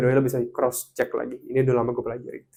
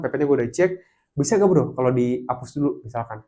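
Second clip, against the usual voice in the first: polite apology. Shown as a demonstration. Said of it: "Atau yang kedua".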